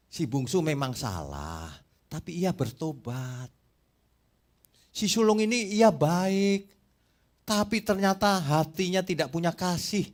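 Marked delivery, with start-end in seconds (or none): 4.9-10.1 slow, louder, higher stress; deliberate preaching emphasis; slow emphatic. Real, not acted. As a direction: weigh each word of the point. Preacher emphasizes elder son.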